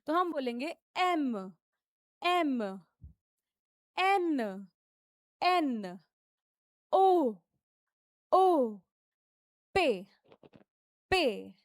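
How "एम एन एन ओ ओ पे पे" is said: French alphabet said slowly with stress; teacher drilling French letters; French letter names. Shown as a demonstration. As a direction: sound out each French letter clearly. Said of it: "हमें थोड़ा सा stress लगा के बोलना पड़ता है".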